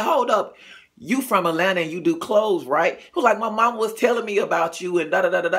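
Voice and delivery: mock-excited cousin putting it together; excited realization. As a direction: catch on all at once, excitedly.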